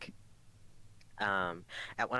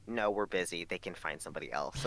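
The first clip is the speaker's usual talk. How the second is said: unbothered manager; 4 semitones lower than usual. Retold or imitated. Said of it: "She goes".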